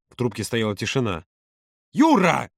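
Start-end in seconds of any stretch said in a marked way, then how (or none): 1.9-2.5 high, urgent call; shouted. A narrator's reading. Володя calling to Юра after the line drops, shouting. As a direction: cry the name into a dead line. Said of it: "прокричал Володя в пустоту".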